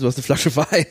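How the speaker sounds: laughing through the words. Real, not acted. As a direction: say it while laughing. Joke said while laughing.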